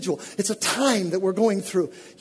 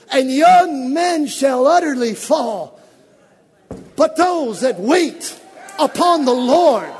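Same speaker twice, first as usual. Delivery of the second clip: louder, higher, chanted cadence; fervent sermon delivery; full-force preaching; 5 semitones higher, 6 dB louder than usual. Acted. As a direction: proclaim it over the congregation.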